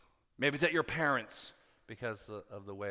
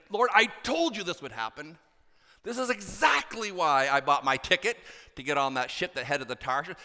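Jonah's grievance; 5 dB louder than usual. Retold or imitated. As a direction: accuse God of being too merciful. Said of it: "It's like".

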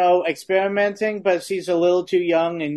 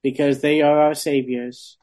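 hammed-up churchy prayer; mock prayer. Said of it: "let's, let's".

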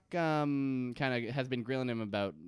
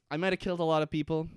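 mock confession; 5 semitones higher, 5 dB louder, much faster than usual. Voicing Ben's confession.

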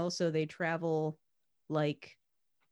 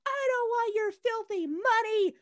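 mock disdain; 4 dB louder than usual. Abram refusing kings' riches.

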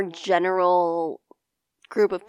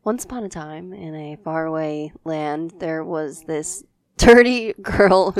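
storybook narration; 3 semitones lower than usual. Pretend. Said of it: "Tell me about Cinderella".

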